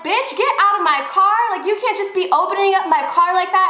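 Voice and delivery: high-pitched retold telling-off; mock yell. Telling the woman to leave her car, mock yell. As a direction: act out yelling at an intruder, not at full volume. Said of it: "So I'm yelling at her".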